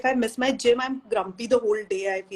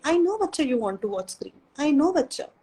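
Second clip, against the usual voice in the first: put-on soothing toddler. Shown as a demonstration. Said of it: "You just repeat what your toddler is saying".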